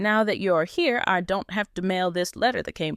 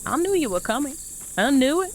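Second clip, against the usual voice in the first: triumphant; 5 semitones higher, faster than usual. Real, not acted. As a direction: crow with delight. Mother triumphant.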